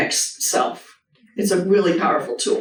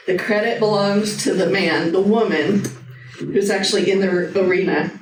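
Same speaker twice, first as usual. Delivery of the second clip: reading a quote aloud. Shown as a demonstration. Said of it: "but I'm gonna read it".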